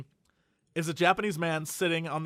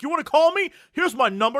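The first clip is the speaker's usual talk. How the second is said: higher, louder mock dare; mimicking a taunt; 8 semitones higher, 4 dB louder than usual. Retelling the wolf-head streamer daring people to call, mock taunt. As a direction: goad them like the wolf-head guy. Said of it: "He's like".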